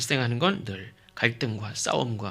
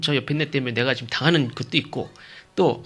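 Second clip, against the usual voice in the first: ordinary talk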